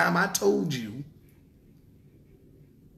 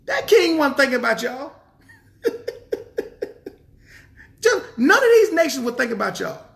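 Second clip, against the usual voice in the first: louder, higher preaching; preacher raising his voice at the crowd; 9 semitones higher, 5 dB louder than usual. Real, not acted. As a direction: hammer it home to the congregation. Preacher driving the point home.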